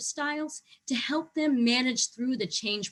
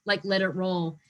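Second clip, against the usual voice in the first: apathetic shrug; slower than usual. Retold or imitated. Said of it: "sort of an apathetic, like".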